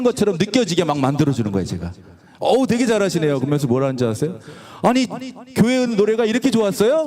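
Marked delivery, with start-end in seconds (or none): 2.4-7.0 retold amazement. Imitating delighted senior guitar students.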